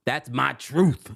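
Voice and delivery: slow, drawn-out quote with rising end; quoting Danielle. Retold or imitated. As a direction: stretch it out, let the end rise. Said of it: "She's like".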